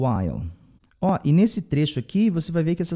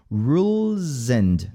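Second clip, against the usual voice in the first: slow rules; 2 semitones lower, much slower than usual. Shown as a demonstration. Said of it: "esse S tem som de Z".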